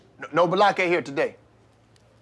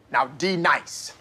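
stern; 5 semitones lower, slower than usual. Acted. Teacher insists on wrong name.

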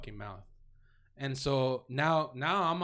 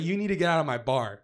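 angry; 7 dB louder than usual. Retold or imitated. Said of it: "he has that mad face on".

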